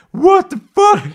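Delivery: high, loud outburst of disbelief; mock shocked yell. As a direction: yell as if jolted awake. Imagines waking to horse head.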